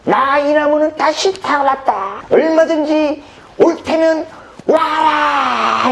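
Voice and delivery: high, drawn-out declamatory yell; theatrical full-voiced battle cry; crazed shout. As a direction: proclaim defiance at fate like a madman. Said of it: "제가 갑자기 미친 거죠".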